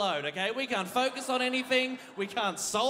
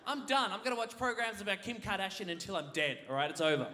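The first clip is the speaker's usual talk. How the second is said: mock defiant yell. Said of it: "I'd be like".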